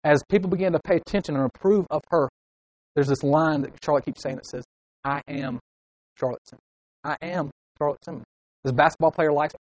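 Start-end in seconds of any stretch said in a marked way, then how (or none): 5.0-8.2 hushed, private declaration of who you are; murmured self-mantra. Acted. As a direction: say it quietly to yourself. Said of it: "repeat over and over to herself".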